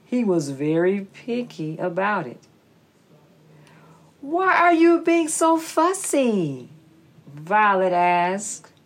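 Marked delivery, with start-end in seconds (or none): 4.2-6.7 little snake voice. Acted. Snake asks squirrel.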